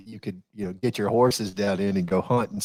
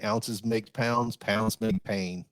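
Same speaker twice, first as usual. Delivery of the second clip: slow, deliberate recital of a motto; military saying; 4 dB quieter, much slower than usual. Retold or imitated. Old soldier reciting his rule to friends, slow and deliberate. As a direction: lay each word down like a drill rule.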